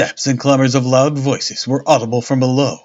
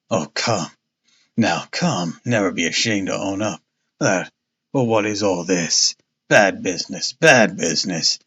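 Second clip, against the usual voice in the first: lower, pompous police inspector; a self-satisfied policeman talking down; blustering inspector; 3 semitones lower, 4 dB quieter than usual. Acted. Jones voiced in story.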